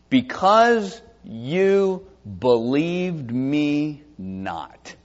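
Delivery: slow, weighty reading of because you believed me not; slow emphatic reading. Shown as a demonstration. Preacher reading God's rebuke to Moses, slow and weighty. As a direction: let every word of because you believed me not land slowly. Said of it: "now listen".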